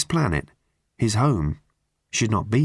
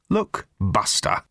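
a lightly voiced threat; curt warning; slower than usual. A narrator's reading. Russell warning Arthur off, slow and curt.

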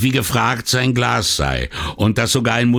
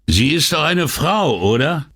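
higher, triumphant question; 9 semitones higher than usual. A narrator's reading. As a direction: crow it like a winner in an argument. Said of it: "rief Bovo triumphierend". (triumphierend, höher gerufen)

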